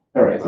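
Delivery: PARASITE with a French Z in place of S. Shown as a demonstration. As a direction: say "parasite" as pa-ra-zeet. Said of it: "will pronounce the S like, like a Z".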